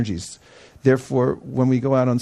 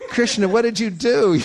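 laughing disbelief; 8 semitones higher than usual. Retold or imitated. Devotees laughing at surprise outcome.

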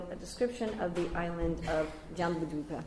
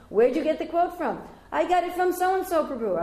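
brisk questioning; 9 semitones higher, 7 dB louder than usual. Retold or imitated. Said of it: "I went to so-and-so G B C man".

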